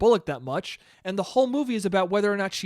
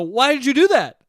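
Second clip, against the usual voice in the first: higher, louder angry yell at a friend; thirteen-year-old furious at a spoiler, shouting; retold angry shout; 6 semitones higher, 7 dB louder than usual. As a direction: yell it at the kid who spoiled it. Kid shoving friend, retold.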